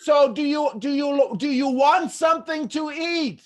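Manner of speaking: high, slow, exaggeratedly clear question; talking to foreigner. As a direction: spell it out as if to someone hard of hearing. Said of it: "so we're talking like this, and then all of a sudden".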